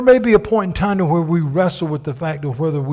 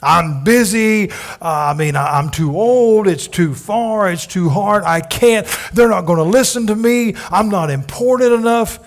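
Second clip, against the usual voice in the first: higher, louder whiny excuses; Moses making excuses; 4 semitones higher, 5 dB louder than usual. Retold or imitated. Moses pleading with God, lightly whiny excuses. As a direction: whine like a reluctant Moses. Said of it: "looking for every reason not to go".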